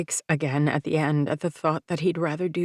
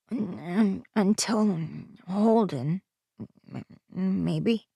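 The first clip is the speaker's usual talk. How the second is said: put-on hesitant, stuttering child voice; a boy tripping over his words, afraid to say it; lightly voiced child, stammering; slower than usual. Aiden stammering reply to mom.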